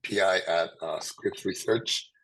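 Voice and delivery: hoarse from a sore throat; talking through a sore throat. Real, not acted. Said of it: "I have a terrible sore throat".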